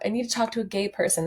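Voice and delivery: quick lightly voiced TikTok quote; quoting a TikTok. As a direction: rattle it off like the TikTok. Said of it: "Does anyone know that TikTok?".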